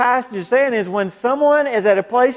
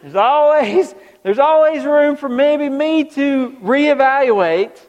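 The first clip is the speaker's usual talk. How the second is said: mimicking a hedger; 4 semitones higher, 3 dB louder, slower than usual. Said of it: "Robbie always leaves some wiggle room".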